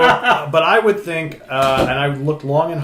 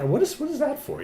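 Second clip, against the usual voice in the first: surprised; 13 semitones higher, 4 dB quieter than usual. Retold or imitated. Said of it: "I'm like".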